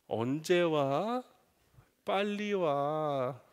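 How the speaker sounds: very slow, drawn-out asks; sweet pleading. Retold or imitated. Son texting dad to come home, slow sweet pleading. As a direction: coax dad home, stretching each word. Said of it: "이런 메시지".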